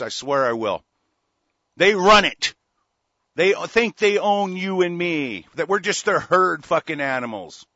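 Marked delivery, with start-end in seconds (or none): 1.8-7.6 angry shout. Real, not acted. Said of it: "I'm kinda pissed off".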